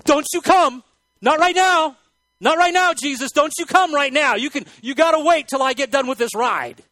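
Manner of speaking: a man in a fighter jet screaming in mock panic; panicked yell. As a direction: yell it in terror as the jet takes off. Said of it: "all of a sudden he goes".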